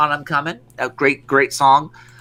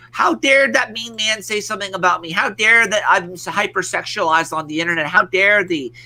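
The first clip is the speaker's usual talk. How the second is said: higher-pitched mock outrage; mock indignation; 4 semitones higher than usual. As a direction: imitate offended rich kids complaining to their parents. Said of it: "insult their parents and say".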